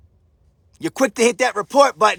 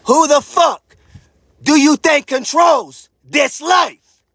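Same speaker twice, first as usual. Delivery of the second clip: louder, slow, demanding; loud challenge; 4 semitones higher, 4 dB louder, slower than usual. Real, not acted. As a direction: spit the question at them.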